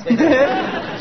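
high, amused little chuckle; a fond giggle at the remark. Acted. Elderly uncle amused at teatime.

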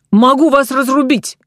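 high, cheerful call across the deck; cheerful shout. A narrator's reading. Count calls cheerfully to the sailor across the stern, high shout. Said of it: "весело крикнул граф со своего конца кормы".

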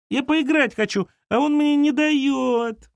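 put-on high, slow, whining child's voice; whiny little girl. A narrator's reading. Girl complains about her brother, high slow whine. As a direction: drag out the complaint like a sulky kid.

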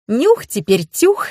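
slow, playful giggled rhyme; giggling. A narrator's reading. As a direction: tease with a little chuckle. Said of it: "хихикнула Маруся". (хихикая, медленно и игриво)

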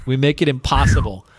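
too close to the mic, popping; clipping distorted mic. Real, not acted. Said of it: "you need to quit shouting into the mic".

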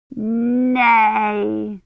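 put-on child sobbing her answer; crying no. A narrator's reading. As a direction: refuse through tears. Crying girl refuses.

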